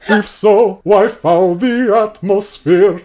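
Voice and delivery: put-on slow, stern Russian-accented recitation. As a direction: intone it like a Soviet delegate. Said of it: "the voice for Calinda Dromaeus".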